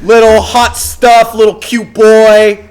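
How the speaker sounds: loud, high, drawn-out Boston taunt; big hammed-up Boston mockery; mock Boston accent. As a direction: jeer slowly in exaggerated Boston. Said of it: "So that's Boston".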